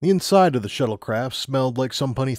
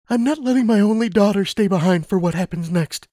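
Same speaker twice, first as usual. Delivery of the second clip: higher, firm mother's voice; insistent mother; 9 semitones higher, 3 dB louder than usual. Acted. Mother insisting Lumina must go, firm. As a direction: hold your ground for your child.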